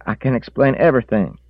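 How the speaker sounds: high, loud pleading; pleading old man. A narrator's reading. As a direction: plead your case. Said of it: "Reese said".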